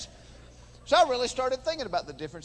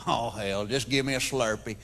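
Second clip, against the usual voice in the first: unimpressed redneck; 9 semitones lower, 3 dB quieter than usual. Retold or imitated. Tar-covered guy to the clerk, low and unimpressed. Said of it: "He went".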